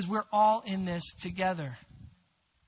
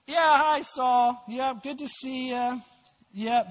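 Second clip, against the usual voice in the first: a hint of an awkward, higher cheery greeting; sheepish David; 4 semitones higher, 5 dB louder, slower than usual. David greeting the king who hunts him, lightly awkward. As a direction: play it lightly, caught-out and too friendly.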